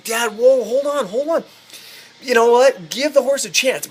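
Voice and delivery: high-pitched mock pleading; imitated alarmed appeal; urgent pleading. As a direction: act out trying to stop someone in a hurry. Son pleading for the horse's life.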